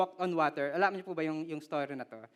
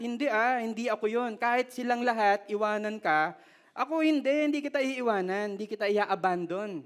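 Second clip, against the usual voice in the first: bold Peter; 2 semitones higher, 4 dB louder than usual. Retold or imitated. Peter vowing to Jesus, louder and confident. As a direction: protest with bold certainty. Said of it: "Peter boldly insisting to Jesus".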